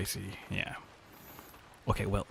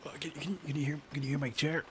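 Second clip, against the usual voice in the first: higher, strained while stretching; straining mid-stretch; 7 semitones higher, 4 dB quieter than usual. Real, not acted. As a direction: talk through the effort of a stretch. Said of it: "I have to stretch".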